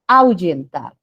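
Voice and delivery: "Ahuyentar" with au as one glide, stress on the final tar; correct pronunciation. Shown as a demonstration. Teacher presents the word to students, joined diphthong. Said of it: "cómo pronunciamos".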